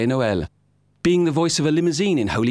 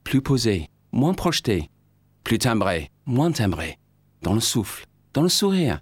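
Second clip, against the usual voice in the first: mock French director. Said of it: "I had to learn a whole new vocabulary".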